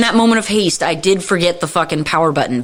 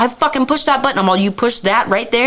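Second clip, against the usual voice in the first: higher, incredulous arguing; mock outrage, pitched up; retold indignant protest; 5 semitones higher than usual. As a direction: protest as if wrongly blamed. Retold argument over the button.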